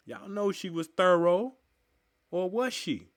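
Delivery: high, mocking rhetorical question; sarcastic doubt. Real, not acted. Mocking doubt about Hurston's thoroughness.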